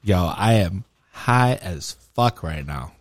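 low, slow stoned drawl; stoner. Real, not acted. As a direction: sound high as a kite, slow and low. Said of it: "Yeah, you look high".

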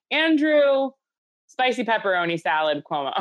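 Andrew belted high and loud; mock grand announcement. Hosts joking on a podcast, hammed-up announcer call of Andrew.

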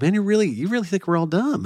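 high-pitched mock complaint; imitated offended listeners. Teased preacher quoting his Southern critics, mock offended. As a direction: quote an incredulous objection, pitched well up. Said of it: "And so they'd be like".

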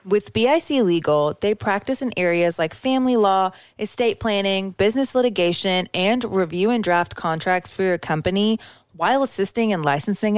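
even, scripted sponsor read. Acted. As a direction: list the services like a podcast sponsor spot. Reads a sponsor ad.

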